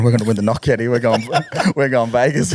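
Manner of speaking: giddy, rising laughter on Vegas; laughing excitedly. Retold or imitated. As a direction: crow it out through laughs, high. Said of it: "were laughing, going".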